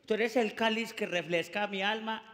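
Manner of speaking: lightly voiced churchy romantic, soft and low at the end; mock devout love poem; religious poetic lover. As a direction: recite like a pious suitor, hushed. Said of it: "en su léxico religioso".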